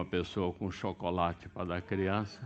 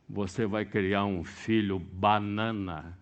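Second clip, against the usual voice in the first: normal talking voice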